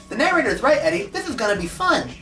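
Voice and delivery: goofy high cheerful voice; happy. Acted. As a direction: say it with dopey glee. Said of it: "who happily said".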